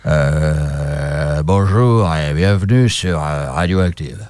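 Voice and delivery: slow, round singer's drawl; impression of a singer. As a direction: croon it like a lookalike of a famous rocker. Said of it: "C'est un chanteur".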